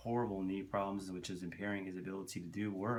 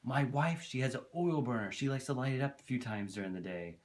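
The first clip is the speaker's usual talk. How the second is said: lightly imitated neighbor, making excuses; mildly mock defensive husband; higher-pitched voice; 4 semitones higher than usual. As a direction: start high and insistent, easing down toward the end. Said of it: "this kinda higher pitched voice".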